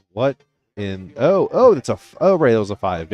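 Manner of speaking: loud, startled high exclamation; surprised outburst. Real, not acted. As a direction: blurt it out in surprise. Commentator misreads dart score.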